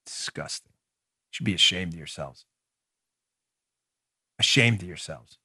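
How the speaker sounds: dropped low and soft, almost breathless scorn; quiet disgust. Real, not acted. Host condemning the rioters, low and soft with disgust. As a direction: let the contempt sink, quiet and heavy.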